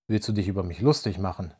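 slightly slurred. Acted. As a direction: slur the words a little after schnapps. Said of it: "lallte er leicht".

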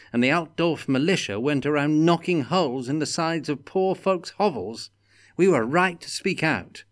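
burn with injustice; indignant. A narrator's reading. Felix ranting inwardly about the unjust window tax.

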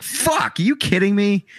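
high-pitched outburst of mock fury; retold exasperation. Co-host retelling reaction to Boston accent remark, high exasperated outburst. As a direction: blurt it high, replaying the exasperation. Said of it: "I get mad".

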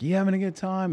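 high-pitched emcee question; calling to a crowd. Retold or imitated. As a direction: work the audience from the stage. Working a crowd from stage.

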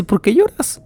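an angel shouting at Pablo for crying; yelling angel. Retold or imitated. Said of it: "el ángel empieza a gritar a Pablo". (el ángel le grita a Pablo por llorar, regaño agudo y fuerte)

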